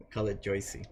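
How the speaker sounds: put-on Jersey accent on Joycey, said lightly; a light put-on New Jersey twang; lightly played Jersey accent; mock Jersey accent. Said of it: "No, I'm putting on an accent".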